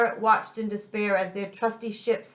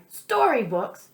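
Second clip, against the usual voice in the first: bellowed; 3 semitones higher, slower than usual. Acted. Pirate finding books in the Sandman's bag, a slow bellow. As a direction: stretch it out in outrage. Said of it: "Pete bellowed".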